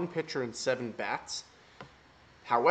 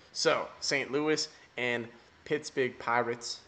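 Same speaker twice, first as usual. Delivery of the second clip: slow mock New York accent; slower than usual. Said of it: "Tried in my New York accent there".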